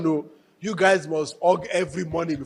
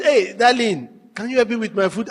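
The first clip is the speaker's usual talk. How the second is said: affectionate tone; 3 semitones higher, 4 dB louder than usual. Shown as a demonstration. Husband sweetly asking wife for food, affectionate tone. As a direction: ask sweetly, raised and rising at the end. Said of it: "That is what the tone".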